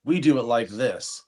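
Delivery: hammed-up Australian boasting about home; mock Australian accent. Telling coworker girls how Australians brag, in a mock Australian accent. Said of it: "Australian people are constantly like".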